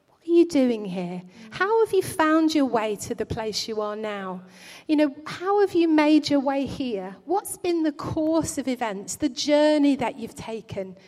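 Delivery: gently asking, lightly voiced God; a touch of fatherly compassion; kind, compassionate tone. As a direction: ask it with kindness, not blame. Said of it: "in a kind, compassionate tone".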